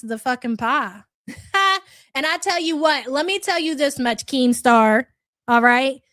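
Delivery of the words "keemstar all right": louder, pointed call to Keemstar; loud warning. Real, not acted. Streamer warns Keemstar off the pie, loud and firm. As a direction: bark the name as a threat.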